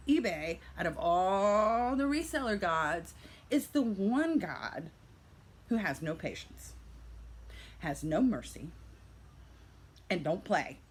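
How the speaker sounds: hammed-up awe of a mighty god; mock epic. Seller describing eBay to viewers, mock grand and slow.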